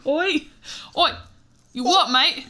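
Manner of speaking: lightly put-on Cockney, mock challenge; half-hearted Cockney bloke squaring up; Cockney accent. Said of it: "really great Cockney English accent".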